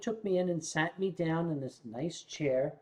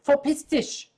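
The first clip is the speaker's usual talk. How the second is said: German phrase demo; 8 semitones higher, 6 dB louder than usual. Retold or imitated. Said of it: "Repeat that to me".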